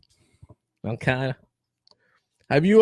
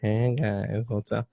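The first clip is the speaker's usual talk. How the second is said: creepy voice; 5 semitones lower than usual. Pretend. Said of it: "that one creepy voice".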